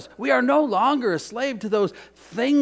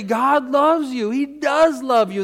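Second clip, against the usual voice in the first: louder, ringing affirmation; with real conviction; 6 semitones higher, 5 dB louder than usual. Shown as a demonstration. Preacher to the congregation, with full conviction. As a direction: proclaim it like you mean it. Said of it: "Say it with real conviction".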